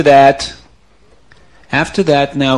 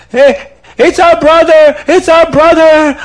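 high, slow put-on lament; hammed-up fake sorrow, much higher; mock grief; 13 semitones higher, 8 dB louder than usual. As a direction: pretend to mourn loudly.

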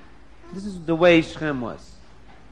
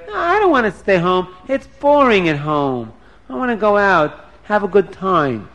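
mildly whining, higher-pitched complaint; restless protest; 3 semitones higher, 4 dB louder than usual. Acted. Bored daughter wants to go out, restless protest. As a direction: protest being stuck at home. Dina protests being kept home.

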